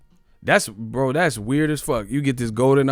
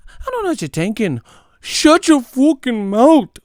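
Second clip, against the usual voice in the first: mock raging yell; 13 semitones higher, 8 dB louder than usual. Mocking a fan screaming at the vlogger, hammed-up yell. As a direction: roar it like a furious brawler. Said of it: "why are you yelling at me".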